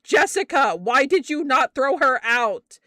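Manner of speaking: loud, exasperated scolding shout; exasperated yell. Retold or imitated. Boss yelling at her employee over the phone, exasperated.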